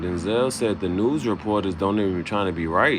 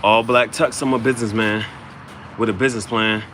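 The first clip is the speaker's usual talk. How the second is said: punchy loud delivery; 4 semitones higher, 4 dB louder than usual. Acted. Delivering a rap line.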